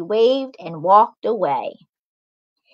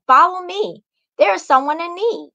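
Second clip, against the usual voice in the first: put-on higher beckoning girl voice; mirror girl voice; 7 semitones higher than usual. A narrator's reading. Girl in the mirror calling Macy, beckoning. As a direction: draw her in gently.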